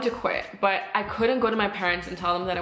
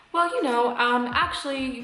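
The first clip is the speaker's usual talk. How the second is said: higher-pitched mock HR stalling; evasive; 5 semitones higher than usual. HR lady asked for a reason, mock-evasive. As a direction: imitate someone dodging a question. Acted HR lady dodging the question.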